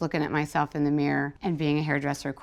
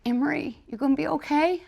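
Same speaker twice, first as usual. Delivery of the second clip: cute, concerned question; 11 semitones higher, faster than usual. Retold or imitated. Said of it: "he was so cute".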